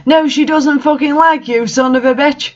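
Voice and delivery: a silly schoolboy tantrum; hammed-up yell. A narrator's reading. Draco yelling at Vampire over Ebony, hammed-up. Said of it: "yelled Draco".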